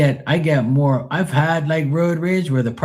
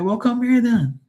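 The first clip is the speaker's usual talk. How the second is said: retold dare; 13 semitones higher than usual. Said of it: "I was like".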